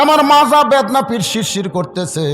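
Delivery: milk the aches; a hammed-up wife faking back pain; whining wife. Wife fakes illness.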